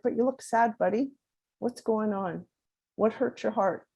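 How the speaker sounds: softly voiced, tender parent; gentle coaxing mom. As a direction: coax a hurt child to open up, lightly acted. Mom gently probing crying child's feelings.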